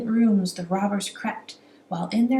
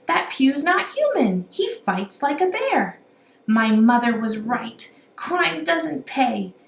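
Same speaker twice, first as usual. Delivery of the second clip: panicked robber; 7 semitones higher, 4 dB louder than usual. A narrator's reading. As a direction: plead it like a beaten crook. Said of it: "shouted Billy".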